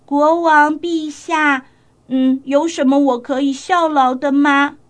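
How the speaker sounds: put-on polite little girl. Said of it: "小女孩很有礼貌地说".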